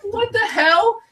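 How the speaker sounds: high, laughing mock outrage; laughing disbelief. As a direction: blurt it while laughing. His confused reaction.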